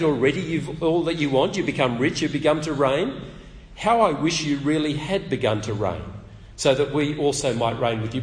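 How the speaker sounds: biting, ironic reading of the praise; sarcastic. Shown as a demonstration. Preacher reading Paul's words to the Corinthians, sarcastic. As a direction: let the sarcasm drip over every line. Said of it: "do you hear Paul's tone of voice".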